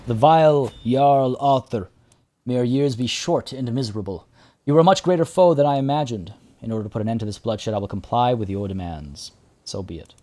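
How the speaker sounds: lightly voiced grudging surrender, theatrical opening; defeated bitter foe. Defeated foe yielding to the victor, lightly acted bitterness.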